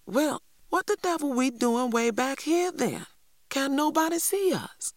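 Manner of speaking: put-on high, outraged child's exclamation; exclaiming. A narrator's reading. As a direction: burst out in indignant disbelief. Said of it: "then exclaimed".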